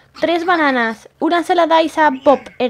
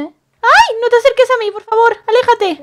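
frightened plea; 5 semitones higher, 3 dB louder than usual. Pretend. Frightened by the unicorn.

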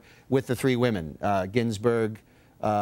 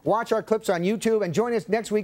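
higher-pitched, upbeat announcer delivery; show host sign-off; 7 semitones higher than usual. Acted. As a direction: rattle off the plugs like a TV host.

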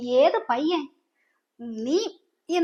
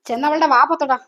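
harsh order; 5 dB louder than usual. Acted. Mother ordering lover to gag.

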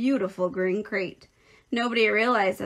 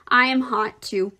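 put-on raised childish complaint, easing at the end; louder, higher, mildly whiny plea; cried complaint; 3 semitones higher, 5 dB louder than usual. A narrator's reading. Boy begging for cold water, crying out. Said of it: "cried Avery".

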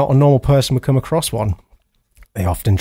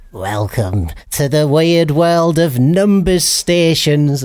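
spooky announcer; 2 semitones higher, slower than usual. Acted. Spooky intro to the topic.

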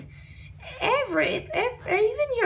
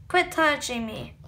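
put-on kid voice; 4 semitones lower than usual. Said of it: "stick with the voice I was doing".

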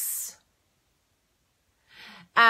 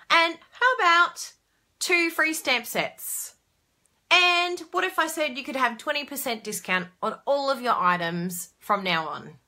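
salesy pitch; 3 semitones higher than usual. Shown as a demonstration. Rereading her newsletter to viewers, upbeat sales pitch. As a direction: sell it like an infomercial, building up. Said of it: "this is how I said it".

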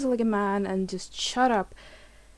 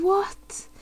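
stunned whisper; 9 semitones higher than usual. Real, not acted. Stunned reaction to the reveal.

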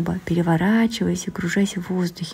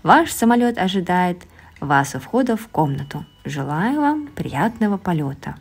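slow, drawn-out pilot announcement; a boy playing a pilot, slow and drawn out; drawn-out airport announcement. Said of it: "немного протяжно произнёс".

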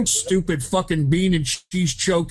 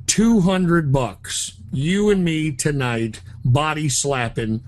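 slow sleazy offer; 3 semitones lower, 3 dB quieter, slower than usual. Acted. Crude proposition to phone clerk.

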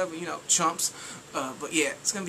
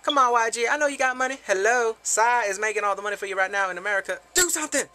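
exasperated plea; 3 semitones higher, 4 dB louder than usual. Real, not acted. Pleading to label YG.

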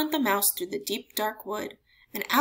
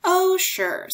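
mocking laugh; 10 semitones higher, 7 dB louder than usual. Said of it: "bursting with laughter".

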